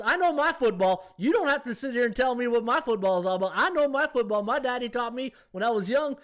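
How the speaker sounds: high and loud, a mock-indignant lady; proud Southern Belle. Southern Belle telling the Australian she knows football, high and loud. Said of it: "She goes".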